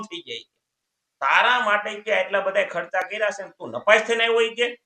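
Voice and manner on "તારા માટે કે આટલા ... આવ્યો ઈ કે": mildly raised, louder scolding; a touch of an angry father. Retold or imitated. Father lightly scolds the son who failed his exams. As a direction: scold the failing son half in earnest.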